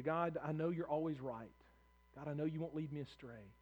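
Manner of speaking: low, soft words to God; hushed, trusting prayer; acted trusting prayer. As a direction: pray it quietly, letting the voice sink.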